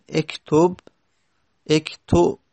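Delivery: اکتب، اکتو as "ektob, ekto"; kasre to damme. Shown as a demonstration. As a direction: open on "e" and move to a rounded vowel in اکتب، اکتو. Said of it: "از کسره به دمه بریم".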